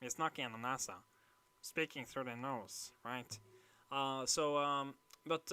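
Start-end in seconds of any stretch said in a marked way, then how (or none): 0.0-2.9 nasal Narvik accent; imitated Narvik twang, through the nose. Shown as a demonstration. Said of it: "they also have a very peculiar accent".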